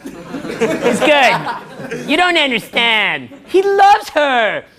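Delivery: hammed-up whimper building to a wail; mock tearful woman. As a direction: plead through tears in her defense. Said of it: "She's like".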